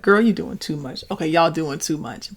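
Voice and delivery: put-on playful, joking "Girl, you doing too much"; light playful jab between friends; jovial teasing. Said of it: "jovial, like, funny way".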